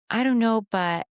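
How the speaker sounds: "I don't know, but" as a tentative question; questioning uptalk. Shown as a demonstration. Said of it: "your voice goes up at the end".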